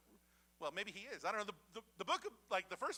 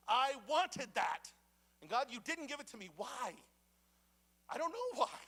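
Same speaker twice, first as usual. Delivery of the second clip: pained lament; 5 semitones higher, 6 dB louder than usual. Retold or imitated. Believer's lament to God.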